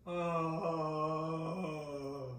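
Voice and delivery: drawn-out hollow "oh"; Eeyore. Shown as a demonstration. Voice teacher finding Eeyore, long hollow oh. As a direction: sound it long from the back. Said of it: "Here's our Eeyore".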